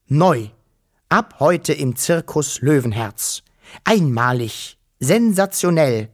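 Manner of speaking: emphatic showman's read, phrase by phrase; circus announcement. A narrator's reading. Wischel reading the circus advertisement, announced in showman style. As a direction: proclaim each headline like a barker.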